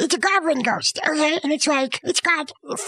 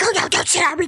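higher, hurried pleading; mock alarm; 5 semitones higher, much faster than usual. Scrooge begging the big ghost, playfully alarmed. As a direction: play at begging off in a fright.

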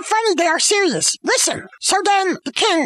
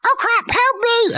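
higher-pitched imitated panic; mock cry for help; 6 semitones higher than usual. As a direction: yelp for help as a hidden eavesdropper. Polonius calls out for help.

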